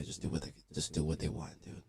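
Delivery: low hushed whisper. Retold or imitated. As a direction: keep it secret from the cops, hushed. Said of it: "I was whispering".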